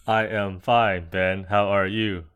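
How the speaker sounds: slow, even robot voice. Pretend. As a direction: speak like a stiff machine. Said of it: "Why do you sound like a robot?".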